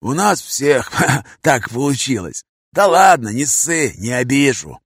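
slow, chuckling tramp reply; laughing. Acted. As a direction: laugh knowingly through it.

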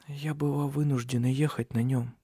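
soft, strained words; speaking with effort. A narrator's reading. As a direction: push each word out. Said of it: "с трудом произнесла Сесилия".

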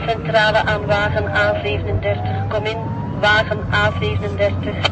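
crisp dispatcher call over the radio. Acted. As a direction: hail the car like a dispatcher.

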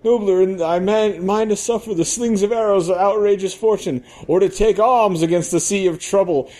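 high, lofty stage recital building to a shout; hammy Hamlet. Acted. Stripper declaiming Hamlet to the club, swelling to a shout. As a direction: declaim Hamlet, rising to a big finish.

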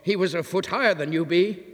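landlady shrieking in disbelief at the stranger; half hysterical cry. Acted. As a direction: gasp in disbelief. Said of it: "half hysterical cry".

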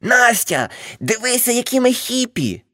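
high, gleeful cry to his wife; joyful shout. A narrator's reading. Uncle joyfully showing off to aunt Nastia, excited shout. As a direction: proudly show off the mess. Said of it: "радісно вигукнув".

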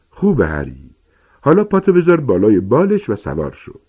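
booming, eager teacher giant; Hagrid explaining. Acted. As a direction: lecture the class like a big friendly giant. Hagrid instructs Harry.

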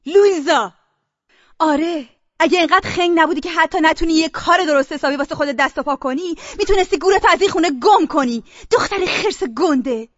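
tearing into her sister; angry sister. Acted.

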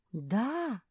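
high questioning puppy voice; surprised. A narrator's reading. Mafi surprised by the shop's rules, questioning rise. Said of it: "удивилась Мафи".

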